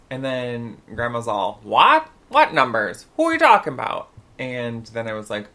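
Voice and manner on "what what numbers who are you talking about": loud, sharp retold demand; indignant grandma. Grandma challenging talk of poll numbers, indignant. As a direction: burst out with high, loud questions.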